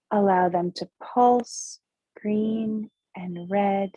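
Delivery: measured visualization voice with lingering pauses; guided meditation. Acted. Host has listeners picture glowing body outline, unhurried meditation delivery. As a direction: guide them through the image phrase by phrase.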